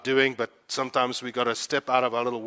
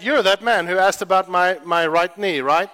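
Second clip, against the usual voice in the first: higher, louder eager recognition; retold eager woman; excited recall; 4 semitones higher, 7 dB louder than usual. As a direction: mimic her excited recall. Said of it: "And she said".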